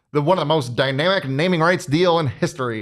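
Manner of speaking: mock newscaster read; hammy announcer delivery. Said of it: "your old person voice".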